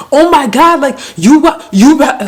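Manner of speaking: high, loud tearful imitation; mock crying rant. Girlfriend arguing with her boyfriend, mock crying. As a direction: wail it like an upset girlfriend, hammed up. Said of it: "like, crying".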